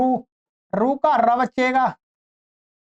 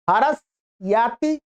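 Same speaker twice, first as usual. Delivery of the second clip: slow demonstration; slower than usual. Shown as a demonstration.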